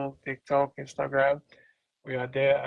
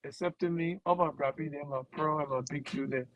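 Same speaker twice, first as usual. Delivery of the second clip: Liberian Kolokwa line. Shown as a demonstration. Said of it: "Just tell them, say".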